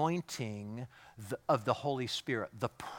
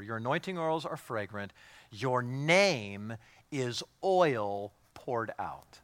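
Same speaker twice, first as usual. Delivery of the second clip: scripture reading; 3 semitones lower, slower than usual. Shown as a demonstration. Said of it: "Look at verse four".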